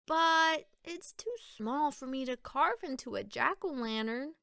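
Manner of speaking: a hint of a disappointed girl; girl's voice. Mona putting the pumpkin back, lightly voiced girl. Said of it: "said Mona".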